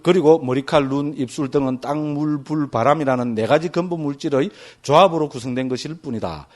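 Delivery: reading aloud. Acted.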